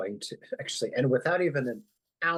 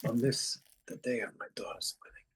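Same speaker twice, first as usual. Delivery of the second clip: dad's bad Godfather impression; 4 semitones higher than usual. Player does dad's bad Godfather line, lightly voiced. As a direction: do a deliberately bad Don Corleone. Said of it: "That's my dad's really bad impression".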